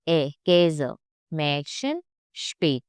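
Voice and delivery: A said "eh", then KÄSE, MÄDCHEN, SPÄT with that vowel; umlaut as E. Shown as a demonstration. Teacher repeating examples for learners, umlaut as E. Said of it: "instead of A, we will say A".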